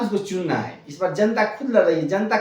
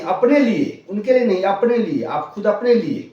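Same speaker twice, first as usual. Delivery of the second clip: 1 forceful urging; 4 semitones higher, 4 dB louder than usual. Real, not acted. Urging voters to act for themselves.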